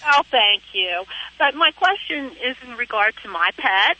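heard through a phone line; over the phone. Real, not acted. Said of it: "I'm talking to you on the phone".

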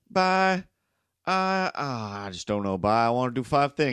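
put-on Cape Breton lilt; Cape Breton accent. Scatterbrained East Coaster listing plans, Cape Breton accent. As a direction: ham up a dithering Cape Bretoner. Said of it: "That's the Cape Breton".

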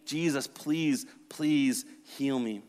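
drawn-out desperate plea; slow pleading. Acted. Leper begging Jesus for healing, slow plea. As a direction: beg him slowly, face in the dirt.

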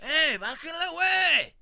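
loud, high angry shout; angry dad yell. Retold or imitated. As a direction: yell at the priest like an outraged father. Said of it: "se enoja como el papá, le dice". (papá furioso gritando al cura)

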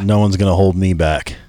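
deep monster voice filter. Real, not acted. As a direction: voice changer monster effect. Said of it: "I got the monster voice on there".

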